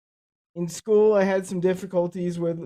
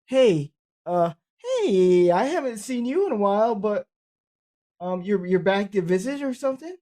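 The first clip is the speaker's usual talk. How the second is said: lightly acted sarcastic colleague, pitched up; mock surprised greeting; 3 semitones higher than usual. Colleague greets a man still there after twenty years, mock surprised greeting. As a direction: imitate a sarcastic hello, drawing out the hey. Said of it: "to their sarcasm".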